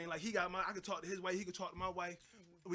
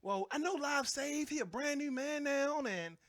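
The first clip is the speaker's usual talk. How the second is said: slow, higher, teasing gossip voice; mock gossiping friend; 6 semitones higher than usual. Wife's friend tempting her with gossip, slow teasing voice. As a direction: dangle the secret slowly.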